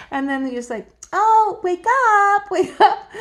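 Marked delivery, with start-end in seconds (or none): 1.1-3.1 coaxing wake up. Retold or imitated. Nudging sleeper awake.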